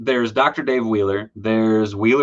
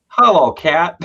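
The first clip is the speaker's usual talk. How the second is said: high, louder hello to a pet; cat greeting; 7 semitones higher, 7 dB louder, slower than usual. Real, not acted. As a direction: coo at the cat. Cat walks into view.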